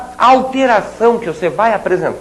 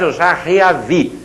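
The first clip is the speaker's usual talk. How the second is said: slow wrong-form demo; 2 semitones lower, slower than usual. Shown as a demonstration. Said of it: "Não me diga mais".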